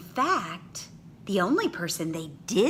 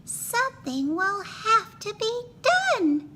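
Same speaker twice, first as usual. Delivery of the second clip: a higher, fed-up teacher voice; exasperated teacher. A narrator's reading. Teacher giving up on rude class, exasperated. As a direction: sigh it out like a worn-out teacher. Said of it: "said Miss Nelson".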